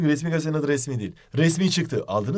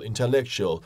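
English pronunciation; 4 semitones lower, 3 dB quieter than usual. Shown as a demonstration. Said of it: "İngilizce'de".

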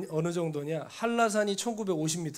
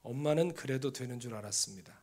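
soft reading voice on "엄마는 그래도 되는 줄 알았습니다", lower and quieter; poem reading; 6 semitones lower, 5 dB quieter than usual. Shown as a demonstration. Preacher starting to read a poem aloud to the congregation, softly. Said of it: "제가 한번 읽어볼까요?".

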